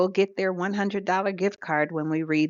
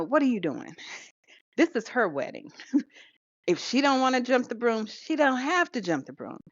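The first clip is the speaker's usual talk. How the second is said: raised, pleading son's voice; son confronting mother; 6 semitones higher than usual. Retold or imitated. Son pushing back at his mother, voice raised high. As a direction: push back hard on the mother.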